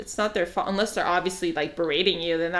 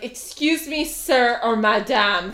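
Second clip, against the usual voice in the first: polite service voice; 3 semitones higher, slower than usual. Retold or imitated. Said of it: "I would have been like".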